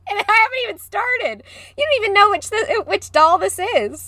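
high giggly tease; giggly teasing. Real, not acted. Teasing Shannon about the doll, high and giggly. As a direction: tease her while still laughing.

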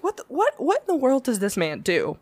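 high, incredulous what; can't believe this guy; baffled. Retold or imitated. Baffled inner reaction.

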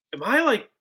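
hammed-up worried asking; mock panic. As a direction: play up the rising panic. Nervous retold panic.

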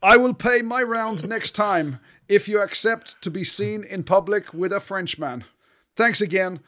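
slow, high mock French accent. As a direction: read it like a Frenchman texting. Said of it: "Can you read it out in his accent".

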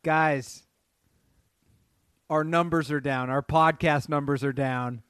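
loud mock-emergency announcement; mock alarm. Mock alarm over falling podcast numbers.

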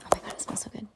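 breathy whisper, savouring the smell. Real, not acted. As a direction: whisper it as if sniffing something lovely. Mom sniffing the new book.

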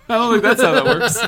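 talking through a big laugh; cracking up mid-sentence. Real, not acted. Co-host laughing at mistake.

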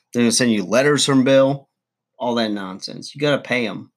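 ordinary talk, nothing marked

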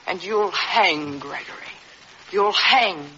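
slow, savoring the word hang; cold taunt. Acted. Wife taunts her bound husband with his hanging, slow and cold. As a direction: drag it out, enjoying his fate.

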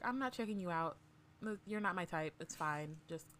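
softly voiced, matter-of-fact reassurance; soothing reassurance. Healer William reassuring Bree during treatment, soft and soothing. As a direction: put the patient at ease, quietly. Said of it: "he's just a very, like, soothing".

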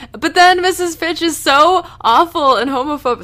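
high, loud indignant outburst; yelling. Real, not acted. Podcaster outraged at a homophobic mother, yelling. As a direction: yell it in real outrage, pitch shooting up. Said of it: "Sorry, I'm yelling".

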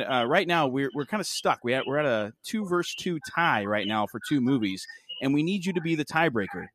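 upbeat radio host voice. Acted. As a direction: talk like a DJ on air. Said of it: "how I turned on my radio voice for Patrick".

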